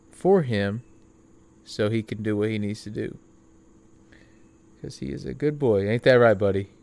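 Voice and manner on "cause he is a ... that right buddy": talking to dog. Real, not acted. Talking to his sick dog.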